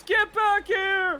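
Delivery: high, drawn-out angry guard shout; loud, stretched-out guard's call; guard yelling. Acted. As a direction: yell it after someone escaping. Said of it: "one of the guards yells".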